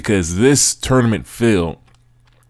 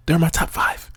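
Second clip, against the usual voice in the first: high-pitched insistence; 9 semitones higher, 4 dB quieter than usual. Real, not acted. Host defending England's ranking, high-pitched insistence. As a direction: lift it high in protest. Insisting, then repeats it whispered.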